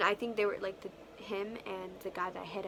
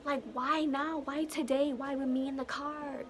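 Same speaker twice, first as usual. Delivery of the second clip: higher, pleading questions in shock; panicked disbelief; 6 semitones higher, slower than usual. Retold or imitated. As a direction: protest to your friend that it can't be true. Panicked denial to friend after crash.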